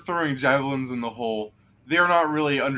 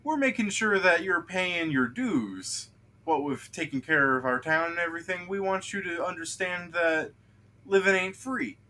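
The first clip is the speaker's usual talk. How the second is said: gnome; 7 semitones higher than usual. Acted. Gnome telling an adventurer to pay up, high gnome voice. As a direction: speak up as a gnome, pitched well above your own voice. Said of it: "gnome speaks up for him".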